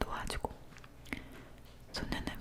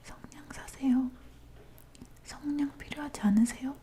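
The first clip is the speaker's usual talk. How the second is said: weak whispered plea; 3 semitones higher, 5 dB louder than usual. Acted. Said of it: "힘없는 목소리가".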